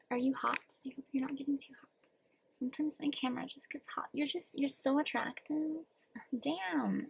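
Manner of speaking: teasing, hushed whisper; playful whisper. Pretend. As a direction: whisper it to the camera like a secret flirt. Teasing whisper to hot camera.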